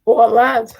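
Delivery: lightly hammed British lad impression; British accent. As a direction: echo the character's British catchphrase with gusto. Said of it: "says some well British stuff".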